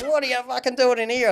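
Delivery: high, loud retold disbelief; astonished greeting. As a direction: imitate a mate amazed to see you. Surprised greeting from fellow inmate, retold.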